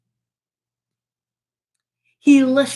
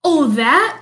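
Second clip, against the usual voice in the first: louder dismissive cry; 2 semitones higher, 5 dB louder than usual. Acted. Bear tearing up his No Visitor sign, louder cry. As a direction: brush it off loudly. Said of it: "cried Bear".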